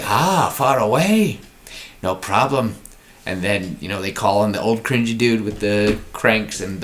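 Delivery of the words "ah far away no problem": breezy dismissal. Pretend. Captain brushing it off.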